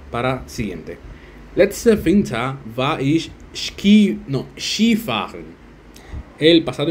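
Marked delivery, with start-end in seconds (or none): 1.5-5.5 very slow, halting read; slow practice reading. Shown as a demonstration. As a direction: stumble through it slowly. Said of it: "slow practice reading". (lectura lenta y vacilante)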